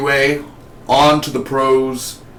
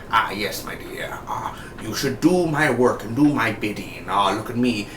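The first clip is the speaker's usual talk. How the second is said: creepy whisper; 3 dB quieter than usual. Retold or imitated. Acted villain line, creepy whisper.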